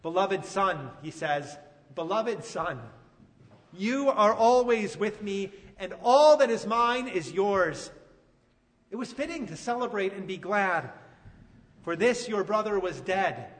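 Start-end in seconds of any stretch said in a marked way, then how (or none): 0.0-0.9 gentle father. Retold or imitated. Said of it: "the father speaks peace". 1.9-13.5 father calmly comforting his resentful son; peaceful father. Retold or imitated. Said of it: "the father speaks peace".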